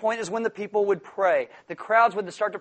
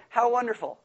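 mild mock delight; a touch of dry irony; sarcastic. Worker answering the boss about weekend work, lightly sarcastic. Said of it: "It's sarcasm".

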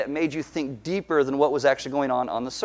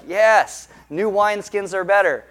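mock eager agreement; 4 semitones higher, 4 dB louder than usual. Imagined congregation finally gets it.

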